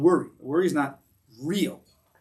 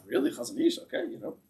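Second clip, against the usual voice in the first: amazed disbelief; 8 semitones higher, 4 dB quieter than usual. Retold or imitated. Guy told Chazon Ish will learn.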